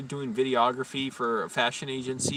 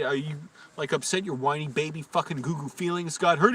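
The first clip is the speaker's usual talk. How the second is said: mock yelling; 3 semitones higher than usual. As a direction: taunt him as a whiny baby. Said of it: "I yelled at him".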